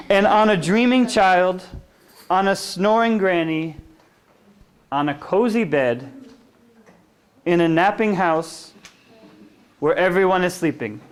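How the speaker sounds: sing-song picture-book reading; gentle read-aloud for little kids; reading to children. Acted. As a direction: lull them along the bedtime rhyme.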